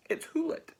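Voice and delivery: high-pitched little storybook mouse; cheery mouse. Acted. Mouse announcing snake to gruffalo, high and cheery. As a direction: pipe up gleefully.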